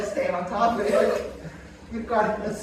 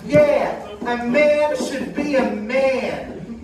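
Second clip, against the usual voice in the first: dismissive dummy voice, raised pitch; Aunt Karen puppet voice; 3 semitones higher, 4 dB louder, much slower than usual. Acted. Dummy aunt brushing off the death rate, scoffing.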